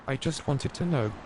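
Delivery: put-on high, timid child voice; crying little boy. A narrator's reading. Little boy crying to the policeman, high and timid. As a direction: whimper it like a small kid. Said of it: "crying and sighing".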